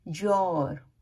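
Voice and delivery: योर as a merged "jor"; native fast-speech pronunciation. Shown as a demonstration. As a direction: say योर like "jyor". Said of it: "वो जब fast बोलते हैं".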